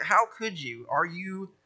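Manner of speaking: a light mocking prophet, voice rising on what; sarcastic Isaiah. Preacher voicing Isaiah mocking idol makers, lightly sarcastic. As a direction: roll your eyes at the idol makers. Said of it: "just that sarcastic".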